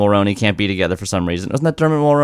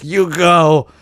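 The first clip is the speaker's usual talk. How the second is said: higher, hammed-up heroic cry from the dad; mock dying dad; 7 semitones higher, 3 dB louder than usual. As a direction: play the self-sacrificing father, overdone. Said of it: "the dad's like".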